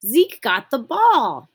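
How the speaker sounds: loud, high, drawn-out excitement; really excited. Shown as a demonstration. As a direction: exclaim it like thrilling game news. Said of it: "really excitedly".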